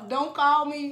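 the line half laughed through; laughing. Retold or imitated. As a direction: crack up while repeating it. Same quote repeated laughing.

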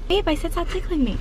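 light mock protest; sing-song fake complaint; playful pretend protest. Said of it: "pretend to tickle me".

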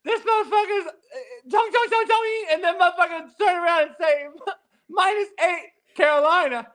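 high, put-on mock Asian accent voice; clowning a mock Asian accent, pitched high. Comedian mocking an interpreter in a mock Asian accent. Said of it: "Steve Kim just told me I'm Chinese".

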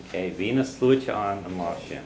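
V na sluacha an, an lá sin said clearly, word by word; teacher's Irish model. Shown as a demonstration. Teacher models the Irish sentence for the learner. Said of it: "you say there were crowds there that day".

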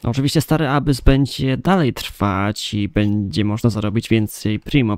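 usual speaking voice

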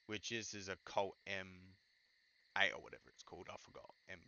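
halting stutter with repeated words. Real, not acted. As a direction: stammer and restart. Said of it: "Sorry about all the stuttering".

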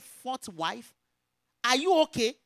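loud, incredulous reproach; indignant challenge. Retold or imitated. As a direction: challenge her sharply, as retold. Retold scolding of the woman.

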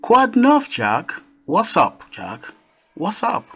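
high mock-excited "Quoi de neuf"; a lively retold excited hello; excited shout. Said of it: "she just shouted".

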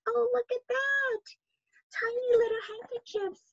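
high, hushed whisper of delight. Real, not acted. Reader showing children the picture, whispered wonder. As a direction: breathe it in wonder at the tiny things.

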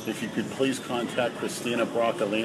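hushed voice message; whispering on the phone. Acted. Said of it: "Why are you whispering".

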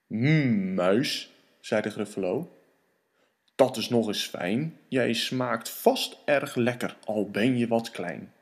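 low, deep monster rumble; Gruffalo voice. Acted. Gruffalo sizing up his dinner, low and deep.

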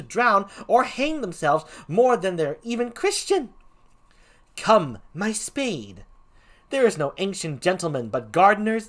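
emphatic, measured comic gravedigger; swooping Shakespearean clown delivery; first clown. Acted. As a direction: lay out a silly proof with relish.

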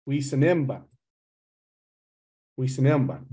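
lightly imitating the North Bay Ojibwe dialect, we sinim bun. Teacher showing students the North Bay dialect, lightly imitated. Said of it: "in North Bay, they say".

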